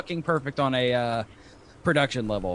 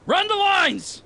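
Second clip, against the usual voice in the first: excited; 14 semitones higher, much slower than usual. Real, not acted. Urging a cohost to read.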